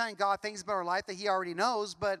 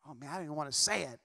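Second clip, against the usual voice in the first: laughing confession; 8 semitones lower, 5 dB quieter than usual. Pretend. Admitting a prayer he avoided.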